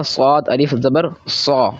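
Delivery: स्वाद अलिफ ज़बर सौ spelled out slowly, letter by letter; slow spelling out. Shown as a demonstration. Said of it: "जिस तरीके से मैं पढ़ रहा हूँ". (धीरे-धीरे हिज्जे करके)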